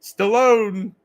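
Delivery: a lightly voiced Rocky Balboa; Rocky impression. Streamer tries his old Stallone impression on chat. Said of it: "I could pull Rocky off".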